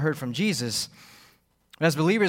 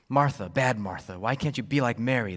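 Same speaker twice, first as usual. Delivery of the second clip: mild judgment; 4 semitones lower than usual. Shown as a demonstration. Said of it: "a tone of judgment and impatience".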